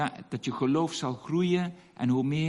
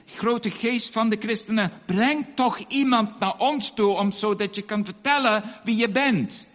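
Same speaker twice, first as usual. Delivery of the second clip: raised, earnest imitated plea; praying; 3 semitones higher than usual. Old woman begging an unknown spirit for a messenger, praying. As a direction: act out a villager's imploring prayer. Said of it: "toen bleef ze maar bidden".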